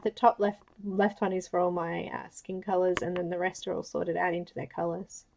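talking around a marker held in mouth. Real, not acted. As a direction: speak with a marker between your teeth. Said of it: "I'm holding a marker in my mouth".

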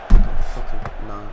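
berserk rage. Real, not acted. Another goal conceded.

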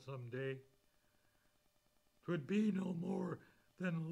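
preacher declaiming hymn verses to the church; fervent hymn recital. Acted. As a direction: build the hymn into a sermon climax. Recites second and third verses.

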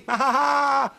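high, loud gleeful witch laugh; witch cackle. Acted. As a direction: cackle in triumph. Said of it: "said Huddle".

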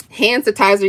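"Hand sanitizer" run together with a syllable dropped, like "han-satizer"; "Hand sanitizer" said a child's way, "han-satizer"; Kyla's pronunciation. Shown as a demonstration. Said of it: "that's what Kyla used to call".

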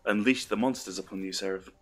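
lightly voiced computer impression, level and even; a hint of calm movie computer; Hal three thousand. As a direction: deliver it like a mild AI warning. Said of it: "like, Hal three thousand's voice".

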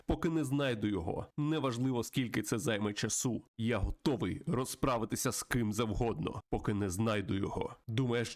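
lightly dramatized game story read-aloud; story narration. Acted. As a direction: narrate the tale with a touch of drama. (виразне читання історії)

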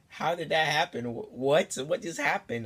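a touch of retold alarm; panicking mom. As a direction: imitate a flustered mom firing questions. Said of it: "panicking, flipping out. And she's like".

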